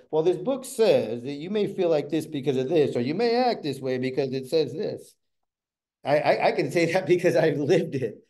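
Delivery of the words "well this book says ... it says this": slow, mock-bookish recital; reciting from a book. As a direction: read it like a dry textbook, slowly. Mocking a textbook explanation.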